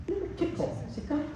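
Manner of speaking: soft cue. Shown as a demonstration. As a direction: coax the horse lightly upward. Coach cueing the horse softly.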